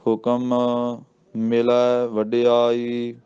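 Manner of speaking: ਮਿਲੈ with a full "ai" vowel, very slowly; drawn-out chant giving ਮਿਲੈ its "ai"; ਮਿਲੈ ਦਲਾਵਾਂ ਨਾਲ; careful recitation. Shown as a demonstration. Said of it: "ਮਿਲੈ ਲੱਲੇ ਨੂੰ ਦਲਾਵਾਂ ਲਾਉਣੀਆਂ".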